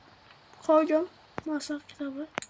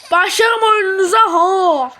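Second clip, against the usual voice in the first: frustrated shout; 3 semitones higher, 8 dB louder than usual. Real, not acted. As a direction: yell out in real frustration. Frustrated at scary game.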